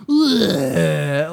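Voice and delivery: loud, drawn-out fake crying groan; hammed-up anguished "ugh"; mock crying wail. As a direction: imitate an actor's overdone sob. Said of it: "like he's crying".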